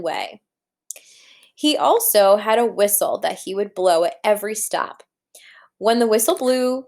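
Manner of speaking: gentle read-aloud storytelling voice; story narration. A narrator's reading. Teacher reading the picture book to her class, storytelling voice. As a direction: read it like to a class of young children.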